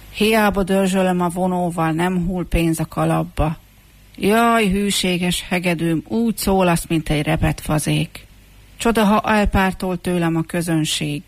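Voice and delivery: mildly exasperated lament; exclaimed complaint. Acted. Street musician complains to the out-of-tune fiddle, exclaiming. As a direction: bemoan it to a useless instrument. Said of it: "Az utcai muzsikus felkiáltott".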